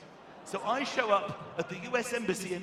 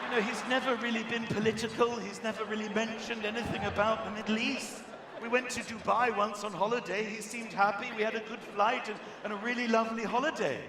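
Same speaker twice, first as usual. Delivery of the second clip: bewildered wife; 4 semitones higher, 6 dB louder than usual. Retold or imitated. Wife on news, continued.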